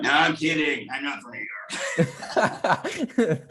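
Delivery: slow, laughing admission of the joke; chuckling, drawn-out reveal. Retold or imitated. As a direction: let the laugh break through as you own up. Quoted actor drops the joke.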